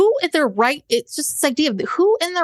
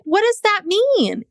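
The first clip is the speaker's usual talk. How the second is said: baffled reaction; 7 semitones higher than usual. Retold or imitated. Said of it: "I was just like".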